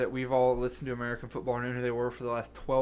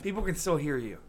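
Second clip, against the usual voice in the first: whispered reply; whispering; 3 semitones higher than usual. Real, not acted. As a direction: whisper it back.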